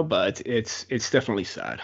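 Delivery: choked up, emotion catching in the throat. Talking about a hockey player who died too soon, choked up. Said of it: "I'm starting to get a little bit choked up right now".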